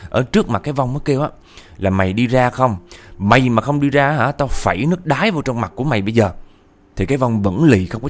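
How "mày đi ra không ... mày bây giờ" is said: raised, pressing voice of a threatening grandma; retold threat. Grandma warns spirit with the chamber pot, retold threat. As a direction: warn the spirit off, a bit louder.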